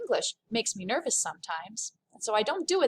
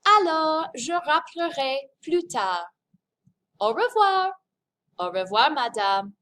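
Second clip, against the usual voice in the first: lively voiced phone dialogue, louder; acted phone call; 3 semitones higher, 3 dB louder than usual. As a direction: play both callers on the phone.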